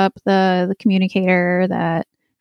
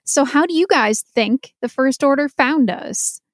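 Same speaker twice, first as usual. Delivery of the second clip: imitating a sarcastic question, pitched higher; mock-innocent question with a sarcastic edge; 5 semitones higher than usual. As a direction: put on a higher, knowing voice to imitate her sarcasm. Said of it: "sarcastic voice".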